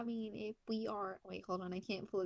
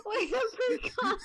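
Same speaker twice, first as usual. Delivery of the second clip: laughing; 13 semitones higher, 12 dB louder than usual. Real, not acted. Bursting out laughing.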